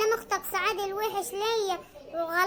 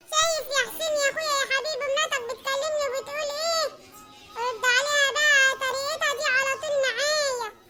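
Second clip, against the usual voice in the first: tattle on the wife to her husband; sister-in-law voice; 2 semitones higher than usual. Acted. Suad complains to Hussein.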